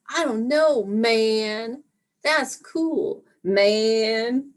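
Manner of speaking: a mellow stoner drawl, lightly put on; hippie kid voice. Mom doing her daughter as a spaced-out hippie.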